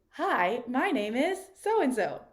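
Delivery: brighter lifted-brow tone; eyebrows up. Shown as a demonstration. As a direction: lift your brows and say hello. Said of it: "lift up those eyebrows".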